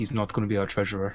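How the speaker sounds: discreet, quiet half-whisper. Discreetly turning to a companion in character to comment: half-whispering in character. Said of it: "kinda whisper".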